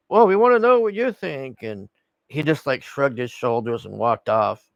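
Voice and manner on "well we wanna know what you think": high, loud mock pestering; insistent reporter. Reporters pressing Trump afterwards, mock insistent pestering. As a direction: push the imitated plea up high and louder. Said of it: "And they're like".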